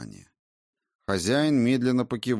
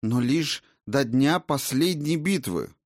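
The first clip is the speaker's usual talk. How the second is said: indignant insistence; 7 semitones higher, 4 dB louder than usual. A narrator's reading. Raina's indignant claim.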